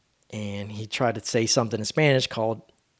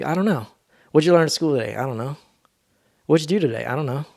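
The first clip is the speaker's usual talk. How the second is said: put-on parent and kid exchange; faster than usual. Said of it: "they always like to say".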